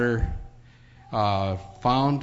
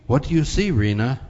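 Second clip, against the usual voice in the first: bright, eager and louder; a doctor asking with real joy; joyful question; 3 semitones higher, 4 dB louder than usual. Acted. Doctor asks the little girl what she sees, joyfully. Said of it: "he asked joyfully".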